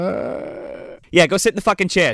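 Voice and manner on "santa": whispered Santa. Retold or imitated. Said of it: "And he's like".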